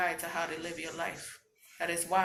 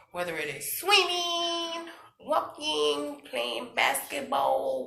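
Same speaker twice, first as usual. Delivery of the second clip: higher, louder, slower excited listing; 10 semitones higher, 7 dB louder, much slower than usual. Real, not acted. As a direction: cheer on each activity. Excited list of outlets.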